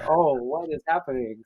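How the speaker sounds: softly stunned reaction, acted out; retold shock. Retelling his reaction to being told he isn't black, mildly shocked. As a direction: replay your quiet disbelief at what was said. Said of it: "I was shocked".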